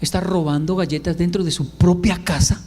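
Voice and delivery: deadpan ironic charge. Acted. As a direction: accuse him with tongue in cheek. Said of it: "se lo digo con ironía".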